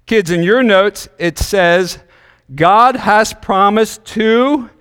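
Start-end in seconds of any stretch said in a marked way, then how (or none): 2.5-4.7 slow, drawn-out prompt; slow fill-in-the-blank read. Shown as a demonstration. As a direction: read it slowly and leave the blank open. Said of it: "and then there's a blank".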